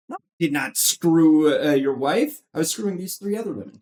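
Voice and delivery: mock-indignant denial, rushing at the end; Robin Williams film character. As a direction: imitate a blamed man defending himself. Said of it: "the Robin Williams one".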